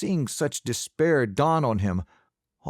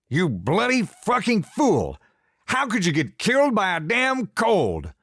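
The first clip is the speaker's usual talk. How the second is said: grief-stricken yelling; 9 semitones higher, 3 dB louder than usual. A narrator's reading. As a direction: rage at the dead son through grief. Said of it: "Pa was yelling at Josiah".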